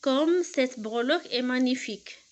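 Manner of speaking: slow, emphatic exclamation; slow teacher model of an exclamation; exclamatory reading. Shown as a demonstration. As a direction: draw out the wonder slowly. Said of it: "il se termine par un point d'exclamation".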